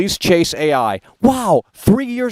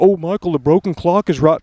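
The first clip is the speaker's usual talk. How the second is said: mock viewer. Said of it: "they come up with that stupid saying".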